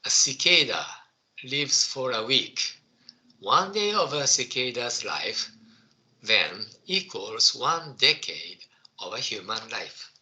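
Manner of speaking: careful second reading aloud; slow school dictation. Shown as a demonstration. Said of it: "Okay, I will read it again".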